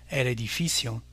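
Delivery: edificio stressed on FI; Spanish edificio with the accent on "fi"; stress on second-to-last syllable. Shown as a demonstration. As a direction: say el e-di-FI-cio, leaning on "fi". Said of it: "l'avant-dernière syllabe est accentuée".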